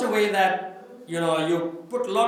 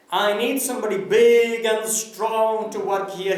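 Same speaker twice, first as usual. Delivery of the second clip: gruff farmer; 3 semitones higher, 5 dB louder than usual. Retold or imitated. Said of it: "he said".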